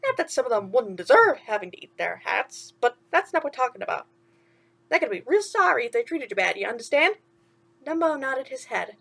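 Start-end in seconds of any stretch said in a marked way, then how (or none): 0.0-7.2 chirpy sidekick asking what's wrong; a hint of cartoon mouse; lightly voiced mouse. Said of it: "Timothy explained".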